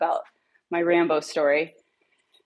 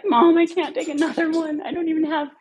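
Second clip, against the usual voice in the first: exasperated protest; 9 semitones higher than usual. Retold or imitated.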